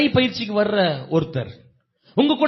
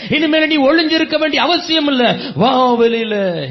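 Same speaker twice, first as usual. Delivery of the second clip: loud, driving sermon call; rising pulpit exhortation; fiery preaching; 3 dB louder than usual. Acted. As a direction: preach it out with full force, urging. Preacher calls out at full force.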